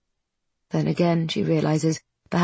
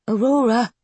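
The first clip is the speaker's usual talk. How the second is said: cautioning; 5 semitones higher than usual. Acted. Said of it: "Wren cautions".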